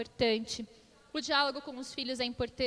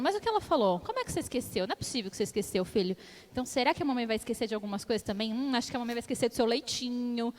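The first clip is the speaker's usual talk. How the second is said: pressing questions; faster than usual. Retold or imitated. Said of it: "eu fui forçando".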